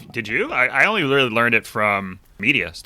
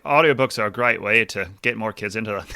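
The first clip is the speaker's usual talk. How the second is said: attempted British accent. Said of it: "I can usually do an Australian accent".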